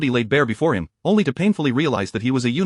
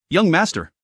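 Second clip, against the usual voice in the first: high worried cry; exclaiming; 4 semitones higher than usual. A narrator's reading. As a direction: call out in alarm. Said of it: "exclaimed in unison".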